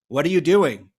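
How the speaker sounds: loud alarmed question. Acted. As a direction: demand to know, startled. Alarmed passengers question fisherman.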